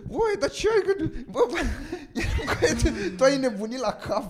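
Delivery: high-pitched mock scolding, half laughing; amused, high retold outburst; imitated scolding. Acting out the suddenly changed speech.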